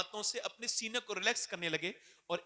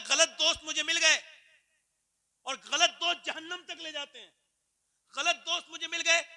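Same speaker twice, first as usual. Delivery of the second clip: loud, high impassioned sermon voice; fiery preaching; 8 semitones higher, 6 dB louder than usual. Acted. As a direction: preach it out with full force. Preacher at full force. (जोशीला ऊँचा वाज़)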